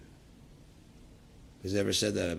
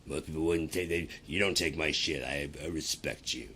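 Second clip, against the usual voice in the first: mock meek flattery; 3 semitones lower than usual. Imitating Trump calming a tough caller, meek. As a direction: back down sheepishly. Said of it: "It's like".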